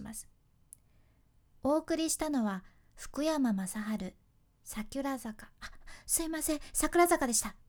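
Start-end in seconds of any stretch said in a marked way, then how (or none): 1.6-7.5 lightly voiced flustered newbie, fading ending, hurried correction; nervous rookie DJ. Shown as a demonstration. Radio host imitating a nervous rookie DJ's song intro. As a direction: rush the apology like a shaky beginner. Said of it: "訂正も早口で言っちゃうんですね".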